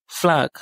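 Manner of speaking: flag in Russian with the final G said as K; Russian pronunciation. Shown as a demonstration. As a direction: flag said as flak. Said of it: "se prononce K".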